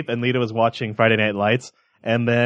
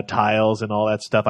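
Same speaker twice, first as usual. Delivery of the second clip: normal talking voice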